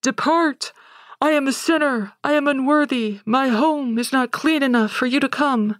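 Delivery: high, awed voice begging him to leave; old man at the door, high and unworthy; trembling holy old man. Retold or imitated. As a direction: recoil before glory, pitched well up. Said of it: "and says".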